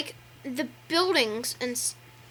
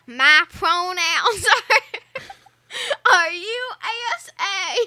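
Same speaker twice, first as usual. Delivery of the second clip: cracking up; 5 semitones higher than usual. Retold or imitated. Girl re-enacts her joke video, cracking up mid-line. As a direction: try to get it out through laughter. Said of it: "was cracking up every time she said it".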